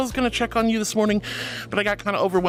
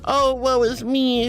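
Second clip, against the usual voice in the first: slow, hammed-up lament; mock melodrama; 4 semitones higher, 4 dB louder, slower than usual. Reading a viewer's joke, hammed-up woe. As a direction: wail it theatrically.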